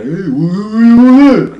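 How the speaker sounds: high, loud "what, what" burst; sudden alarmed yelling; startled yell. Retold or imitated. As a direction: shout it at your cousin in alarm. Cousin shouting at him.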